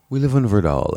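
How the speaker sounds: a hushed, exclusive-sounding whisper; snooty whisper. Retold or imitated. Mocking fancy friends, saying their street in a snooty whisper. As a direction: whisper it like a secret club password.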